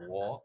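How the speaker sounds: "what" with its final T left off, British style; British dropped T. Retold or imitated. Showing how Brits lose their T, mock British "what". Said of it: "They can't say T".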